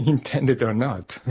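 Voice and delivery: a short laugh, then "Intended or not?" slowed and puzzled; laughing disbelief. Retold or imitated. Repeating the author's phrase to the host, laughing in disbelief. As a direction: chuckle at the phrase, half asking.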